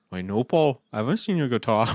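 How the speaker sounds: lightly voiced British band-member reply; mock Liverpool accent, politely answering; one bandmate. One bandmate answering another about the guitar, mock British accent. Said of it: "I just started doing the band".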